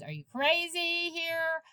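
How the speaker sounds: a wife's shocked challenge, lightly acted; incredulous wife.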